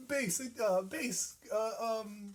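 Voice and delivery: high robotic game announcer. Retold or imitated. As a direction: read it like a video game alert. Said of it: "and then it was like".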